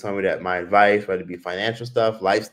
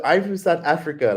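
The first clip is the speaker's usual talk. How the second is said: put-on a light Indian accent, pitched up to pass as South African; imitating Tyler's Indian accent; 6 semitones higher than usual. To a vendor, a mild imitated Indian accent. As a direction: put on Indian accent to dodge higher prices. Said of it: "trying to talk like Tyler".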